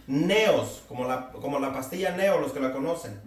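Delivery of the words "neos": "neos" stressed on the first syllable, NE-os. Shown as a demonstration. Preacher teaching a Greek word, "neos" stressed on E. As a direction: say "neos" with the accent on the E. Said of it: "se deriva de otra que es así".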